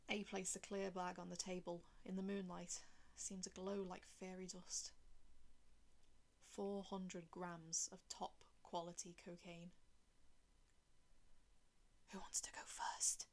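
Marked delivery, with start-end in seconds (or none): 3.1-9.7 hushed, slow whisper. A narrator's reading. Hushed scene in dark room. 12.1-13.3 whispered. Acted. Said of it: "B whispered".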